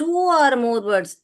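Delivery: very slow, every word spaced out; slow, clear teacher read; slow dictation. Shown as a demonstration. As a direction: spell it out slowly for the class. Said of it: "एक से अधिक".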